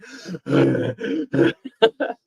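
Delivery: demonstrated big breathy exhale; out-of-breath gasp. Shown as a demonstration. Streamer showing the end of a take, breathless gasp. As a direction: let held breath out noisily. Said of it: "Sometimes I hold my breath too".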